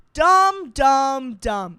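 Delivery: three loud falling blows, stepping down in pitch; self-berating. Real, not acted. Bridesmaid cursing herself for forgetting, emphatic self-scolding. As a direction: beat yourself up word by word.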